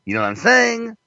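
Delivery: high, swooping character voice; sing-song caricature, phrases lifting high at the end; Ralph Lifshitz. Acted. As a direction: rave like a hammed-up designer character. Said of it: "My name is Ralph Lifshitz".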